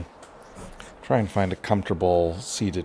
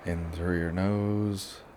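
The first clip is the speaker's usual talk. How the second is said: guided relaxation; 6 dB quieter than usual. Shown as a demonstration. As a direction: ease them through each breath, leaving long pauses. Leads a breathing relaxation.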